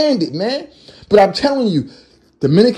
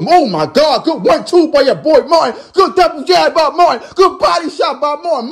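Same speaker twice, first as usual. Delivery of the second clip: higher, fast punch calls rising to a shout; excited play-by-play; 6 semitones higher than usual. Real, not acted. Calling Martin's punches live, excited and rising. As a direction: call each punch as it lands.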